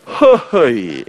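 long, sliding "heo-heoi"; imitated awkward exclamation. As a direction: mimic an embarrassed patient, drawn out. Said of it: "그러면 이분이 이럽니다". (멋쩍게 길게 빼는 "허허이" 흉내)

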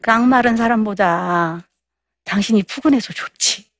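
warm compliment. Acted. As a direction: reassure her kindly, unhurried. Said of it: "이렇게 하는 거예요".

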